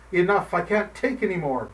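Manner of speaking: put-on old man raging at the evil cat. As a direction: rage at the cat. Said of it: "he raged".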